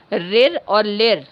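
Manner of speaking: रिर और लिर said slowly, each vowel sound drawn out and clear; धीमे-धीमे स्पष्ट उच्चारण; slow vowel demo. Shown as a demonstration. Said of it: "रिर दो बार है और लिर है".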